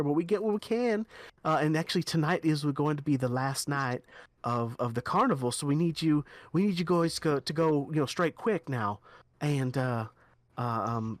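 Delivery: a hint of a chatty official; lightly voiced quest giver. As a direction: talkative noblewoman, lightly voiced.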